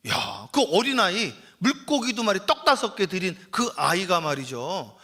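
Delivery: usual speaking voice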